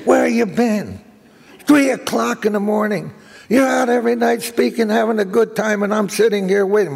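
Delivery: mock-indignant wife voice; nagging wife. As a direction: scold him like a wife who waited up all night. Wife scolding him late at night.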